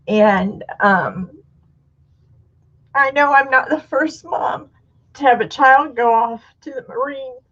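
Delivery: holding back tears; tearful. Real, not acted. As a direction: voice breaking while telling hard news. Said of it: "without crying".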